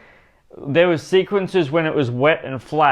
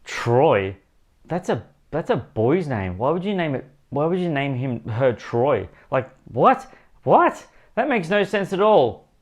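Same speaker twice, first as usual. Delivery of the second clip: baffled disbelief. Retold or imitated. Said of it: "I was like".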